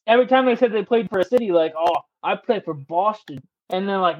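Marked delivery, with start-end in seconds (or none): 1.8-3.4 lazy player answer. Retold or imitated. Player naming a city.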